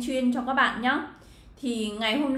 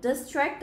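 "Distract" stressed on TRACT; light "dis", stressed "tract" in "Distract"; second-syllable stress; 4 semitones higher than usual. Shown as a demonstration. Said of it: "các bạn nhấn vào hai". (nhấn âm hai trong "Distract")

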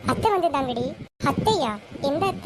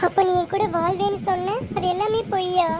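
tearful; 5 semitones higher than usual. Acted. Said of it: "Deepika, அழுகாத".

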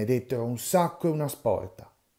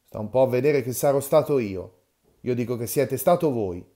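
heated; 6 dB louder than usual. Acted. Old men quarrelling over insult.

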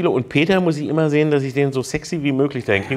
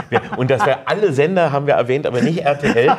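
laughing; 4 dB louder than usual. Real, not acted. Laughing while recounting the RTL ban.

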